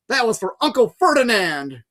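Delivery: high, loud yell. A narrator's reading. Grover yelling back at Medusa. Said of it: "Grover yelled back".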